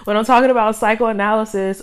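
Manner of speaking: giggling through the word after tripping on it; laughing at herself. Real, not acted. Host laughing at her own slip, giggling. Stumbles over psychoanalysis and laughs.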